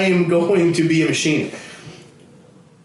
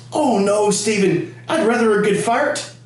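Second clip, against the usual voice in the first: put-on lightly raised old-lady voice with a laugh; a hint of old granny; 5 semitones higher than usual. Grandma refusing scotch, lightly voiced granny. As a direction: turn down the scotch primly. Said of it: "And she goes".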